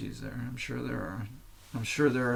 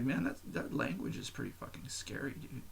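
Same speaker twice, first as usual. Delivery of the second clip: whisper; 10 dB quieter than usual. Retold or imitated. Aside about scary German conductor.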